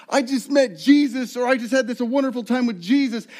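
high, earnest sharing of good news; a kid back from camp, high and loud; eager kid. Retold or imitated. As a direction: beam as you tell your friends. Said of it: "they try to tell their friends".

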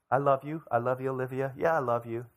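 listless, dutiful declaration of love; love without devotion. Acted. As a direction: say it with no desire behind it. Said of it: "with any desire, with any devotion".

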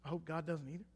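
the same vow again, dropped soft and heavy; quiet repeat. Shown as a demonstration. Preacher to congregation, repeating his vow quietly. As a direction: let it land softly. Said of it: "Do you hear me?".

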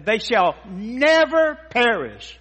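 "never" drawn out slow and high; slow, weighty "They shall never perish"; stress on never. Shown as a demonstration. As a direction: lean hard on "never". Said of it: "That sounds strong enough".

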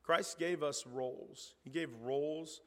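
ordinary delivery

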